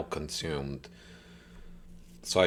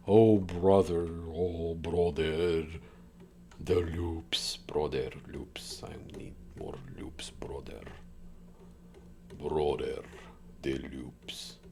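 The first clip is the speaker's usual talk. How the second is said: meme voice; 2 semitones lower, 5 dB quieter, slower than usual. Retold or imitated. Quoting meme voice, whispered loops.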